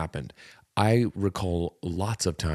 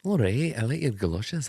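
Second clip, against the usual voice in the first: mock Scottish accent. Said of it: "That's more Scottish than it's anything".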